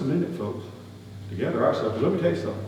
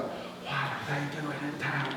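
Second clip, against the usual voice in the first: mock whisper; 15 dB quieter, slower than usual. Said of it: "whispering behind our backs".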